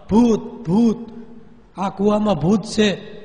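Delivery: frightened mother running home screaming; terrified cry. A narrator's reading. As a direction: yell it while fleeing the well. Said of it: "ચીસ પાડી".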